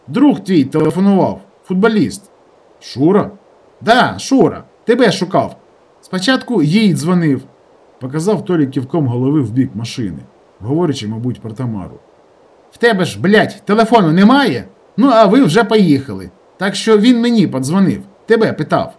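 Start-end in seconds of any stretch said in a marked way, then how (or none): 0.1-7.4 a touch higher, lively village lad; brisk rural fellow explaining himself; light sketch of a rustic young man; lightly voiced village guy. Tolik voiced by narrator. 12.7-18.9 higher, louder chatty rustic lad; rustic fellow relaying a phone message; lively village guy. Acted. Tolik voiced by narrator.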